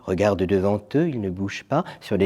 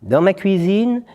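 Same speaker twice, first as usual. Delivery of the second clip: fat lady; 8 semitones higher, 4 dB louder, slower than usual. Acted. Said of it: "dit la grosse dame".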